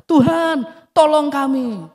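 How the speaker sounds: loud, pleading cry for help; desperate plea, voiced loudly; crying out to God. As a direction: call out to God in distress.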